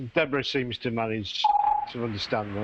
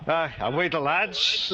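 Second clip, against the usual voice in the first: a quick burst of Geordie dialect, drawn out and raised; Newcastle dialect; 4 semitones higher, slower than usual. Shown as a demonstration. Showing the group real dialect versus accent, Newcastle dialect. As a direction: demonstrate broad Newcastle speech, slower and higher. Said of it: "if it was a dialect, I'd be talking".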